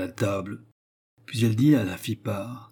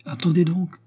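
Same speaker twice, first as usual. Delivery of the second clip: put-on higher-pitched old concierge voice; old widow; 8 semitones higher, 4 dB louder than usual. A narrator's reading. Old concierge stops Léon on the stairs, high old widow voice. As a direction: voice an old woman holding someone back. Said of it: "La vieille le retint".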